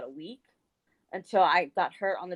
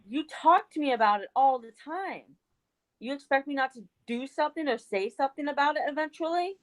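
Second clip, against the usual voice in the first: higher-pitched retold indignation; indignant retort; 6 semitones higher than usual. Retelling a retort to an ungrateful friend, indignant. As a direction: push back in mock disbelief.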